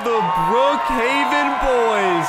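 high-pitched greeting to the crowd; calling to crowd. Acted. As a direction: announce the band to a big audience.

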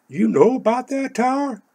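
high, surprised question. Retold or imitated. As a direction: ask in sharp disbelief. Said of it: "And I said".

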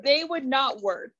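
tipsy. Real, not acted. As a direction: talk a little tipsy. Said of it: "Sorry, I'm a little bit more tipsy".

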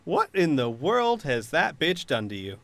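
incredulous mocking, loud at first; scornful villain. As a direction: scoff at the idea, then settle. Villain scoffs at honor plea.

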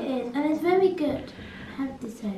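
put-on playful baby voice. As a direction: say it like a little kid. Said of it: "can you stop doing the baby voice".

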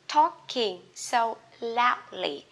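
very slow, drawn out; slow teacher demo; slow model reading. Shown as a demonstration. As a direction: spell it out slowly for learners. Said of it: "slow model read of phrase".

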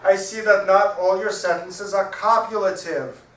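loud, high, slow parrot. A narrator's reading. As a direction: pronounce it slowly and loudly as the parrot. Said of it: "signs the parrot".

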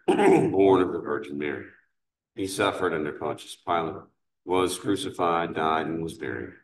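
ordinary delivery

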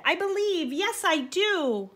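high, loud, overjoyed cry; bursting out. A narrator's reading. Donkey bursting out his belief to the man. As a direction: blurt it out, full of new faith. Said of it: "he repeated".

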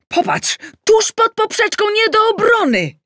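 very high, loud raving; enthusiastic. Acted. Adam raving to his wife about the goal, enthusiastic. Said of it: "entuzjazmował się Adam".

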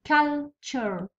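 Culture with the first syllable held; stress on CUL. Shown as a demonstration. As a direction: lean on 'cul', then release the rest of Culture. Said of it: "ديما يجي في الأول".

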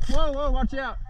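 high, quick alarmed warning; startled warning. Real, not acted. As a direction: warn a teammate of sudden danger. Sudden warning during play.

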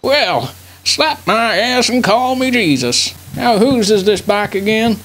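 put-on old veteran grandpa rambling; doddering old grandpa voice. Plays senile WWII grandpa throughout.

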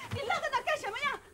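put-on a shrill aunt berating the child; scolding aunt. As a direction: tear into the clumsy niece.

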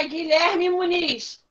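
slow, drawn-out calling of the name; slowly calling a pupil's name. Real, not acted. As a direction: stretch the name out to call him.

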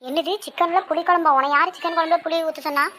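shocked scolding. Acted. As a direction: demand an answer, mildly aghast. Scolds cook over tamarind in chicken. (அதிர்ச்சியுடன் சற்று உயர்ந்த குரலில் அதட்டல்)

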